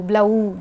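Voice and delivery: ब्ल ऊ with ब्ल and ऊ pulled apart; ब्ल ऊ broken in two instead of blended; split blend. Shown as a demonstration. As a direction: say ब्ल ऊ as two separate pieces, the wrong way. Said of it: "इसमें हम ब्ल नहीं बोलेंगे".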